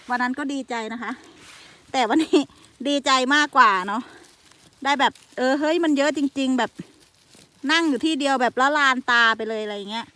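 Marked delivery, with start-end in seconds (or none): 1.9-10.1 louder, bubbling with joy; real delight. Real, not acted. Telling viewers about today's huge mushroom find, louder and delighted. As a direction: gush over how many mushrooms there are.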